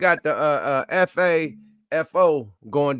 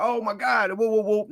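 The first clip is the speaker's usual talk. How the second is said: higher-pitched imitation of a fuss; mock alarm; 6 semitones higher, 4 dB quieter than usual. Podcaster mimicking reaction to the army news, mock alarm. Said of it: "And now we like".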